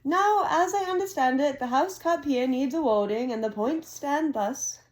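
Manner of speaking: a hint of a grand old headmaster; Dumbledore voice. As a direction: read it like a genial old wizard addressing the hall. Dumbledore speech read aloud.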